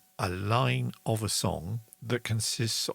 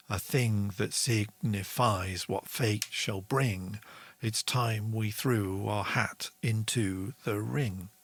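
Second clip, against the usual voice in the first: poem recital. Shown as a demonstration. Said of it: "So I wrote this".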